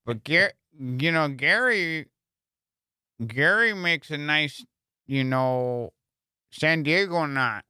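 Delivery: slow, halting host with long gaps; dull fishing podcaster. Retold or imitated. Comedian imitating a fishing podcast, dragging and dull. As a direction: draw out each phrase, pausing aimlessly. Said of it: "it's like fucking watching paint dry".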